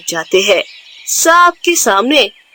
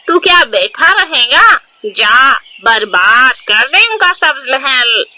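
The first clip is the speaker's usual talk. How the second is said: egging him on with spite; a lightly voiced scheming mother urging her son. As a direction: push him to go ruin it. Crow mother urges her son.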